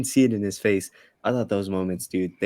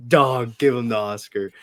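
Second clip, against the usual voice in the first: hyped reaction; 3 semitones higher, 5 dB louder than usual. Retold or imitated. Friend raving about the villain's line, excited shout. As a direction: blurt it like you're blown away.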